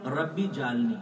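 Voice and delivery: ربی جعلنی with ربی split off and jim given zabar; common mispronunciation. Shown as a demonstration. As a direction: mimic the wrong ربی جعلنی. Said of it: "ربی علیحدہ کر دیتے ہیں". (ربی جعلنی غلط تلفظ)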